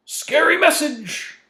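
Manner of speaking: high, loud, drawn-out fake scare; exaggerated spooky mockery, stretched out slowly. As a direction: wail it like a hammed-up ghostly warning. Mocks North Korea's threat.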